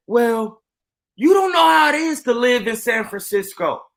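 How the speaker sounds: high-pitched imitation of a flustered Karen; mock Karen. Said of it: "The Karen lady is just flipping".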